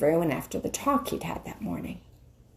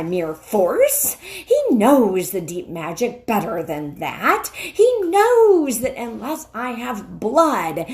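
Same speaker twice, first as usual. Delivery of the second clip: menacing witch; 2 semitones higher, 3 dB louder than usual. Acted. The witch warning Narnia will perish. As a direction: press each threat home.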